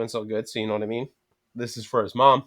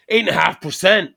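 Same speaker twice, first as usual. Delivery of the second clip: higher and louder, shocked at the number; surprised outburst; 7 semitones higher, 7 dB louder than usual. Retold or imitated. Friend reading the beer label, loud and surprised. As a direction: blurt it out like you can't believe it.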